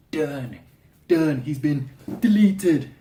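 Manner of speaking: triumphant, slow punch on "deleted"; emphatic finality. Real, not acted. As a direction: hammer each word like a final verdict. Declares the character finished for good.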